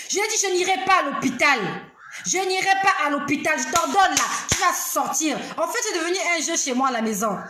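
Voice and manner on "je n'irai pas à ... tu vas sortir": refuse, then order it out; reenacted stand against an illness; defiant command.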